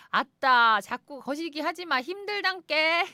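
loud Jeolla dialect, drawn out at the end; hammed-up Jeolla dialect. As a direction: throw it out in broad Jeolla dialect. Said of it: "사투리로".

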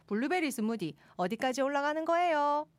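steadily rising to a long, high 거예요; climbing Gyeongsang intonation. Shown as a demonstration. Host signing off with dialect joke, climbing Gyeongsang accent. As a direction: climb all the way up on 어디까지 올라가는 거예요. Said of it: "음정은 계속 올리시면 되고요".

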